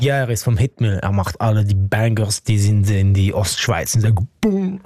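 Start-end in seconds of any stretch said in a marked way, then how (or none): 4.4-4.8 playful higher-pitched "boom"; imitated boom. Musician telling host how the producer's bangers land, playful boom. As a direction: mimic a banger going boom.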